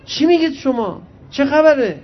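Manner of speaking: imitated sudden outburst, pitched high; mock yell across the room, not full force; retold shout. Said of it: "یه دفعه آقای حقشناس داد زد".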